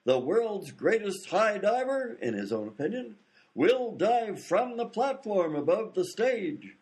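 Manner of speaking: grand, drawn-out showman's introduction; stage announcer. Acted. Announcer presenting a high diver to the audience, grand showman. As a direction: announce the act with slow, theatrical build.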